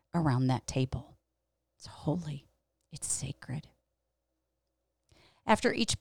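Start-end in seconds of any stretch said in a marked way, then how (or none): 1.8-3.7 very soft, reverent aside; hushed reverence. Real, not acted. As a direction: let it drop to a hushed, sacred close. Reverent close of a remembered story.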